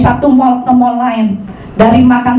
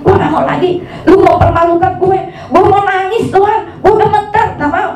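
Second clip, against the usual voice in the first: grumbling at God; 5 semitones higher than usual. Retold or imitated. Preacher retells complaining to God after preaching, grumbling protest. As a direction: complain in mounting protest, pitch jumping up. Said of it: "saya ngomel sama Tuhan".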